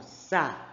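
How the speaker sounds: "Sa" set apart with a hissed S; isolated S sound. Shown as a demonstration. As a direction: sound out "Sa" on its own. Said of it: "Prestou atenção no som".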